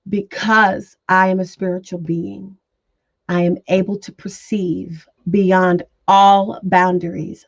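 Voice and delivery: measured affirmation for others to say along; slow, measured recitation. Shown as a demonstration. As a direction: recite an affirmation steadily, pausing between phrases. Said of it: "I'll say it slowly enough".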